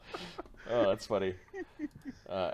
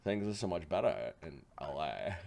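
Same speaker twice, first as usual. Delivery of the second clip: mock L.A. accent; 6 semitones lower, 9 dB quieter than usual. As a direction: tease Americans with a laid-back L.A. accent. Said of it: "making fun of, uh, North American accents".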